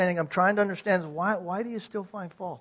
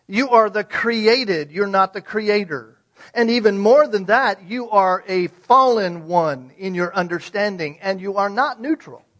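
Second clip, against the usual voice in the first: loud, slow, forceful declaration; thundering rebuke; 4 semitones higher, 13 dB louder than usual. Acted. God on his throne rebuking the arrogant questioner, thundering. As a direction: boom it down from the throne. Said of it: "God's having a dialogue with us".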